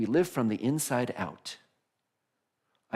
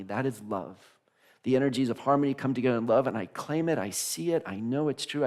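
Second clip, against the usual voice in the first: affirmative prayer. Acted. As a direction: claim each line as truth, with rising conviction.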